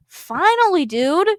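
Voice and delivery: finally, with glee; excited cheer. Real, not acted. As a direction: cheer the long-awaited twist. Reacts to the backhand.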